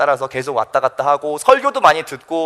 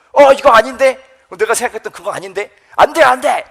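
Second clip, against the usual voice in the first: alarmed protest, louder and higher at the outbursts; 항변하는 제자 흉내; 4 semitones higher, 3 dB louder than usual. Acted. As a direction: blurt out objections as the baffled disciple. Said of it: "막 항변을 하는데". (당황해서 막 항변하듯)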